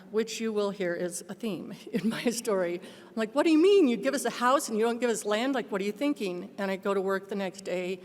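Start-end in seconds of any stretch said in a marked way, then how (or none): 3.4-6.5 sudden high exasperated outburst; exasperated plea to God; arguing with God. Retold or imitated. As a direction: demand answers of God, incredulous. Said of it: "I start arguing with God".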